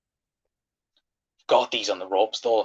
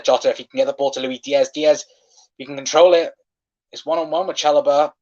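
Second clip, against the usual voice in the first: excited play-by-play; 4 semitones higher, 5 dB louder than usual. Real, not acted. Liverpool attack in progress.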